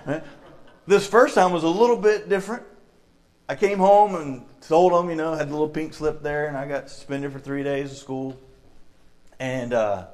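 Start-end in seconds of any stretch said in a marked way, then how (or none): none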